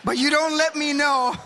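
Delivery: high-pitched Jewish New York accent; Jewish accent, half New York. Shown as a demonstration. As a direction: plead in a put-on Jewish accent. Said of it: "It's half New York".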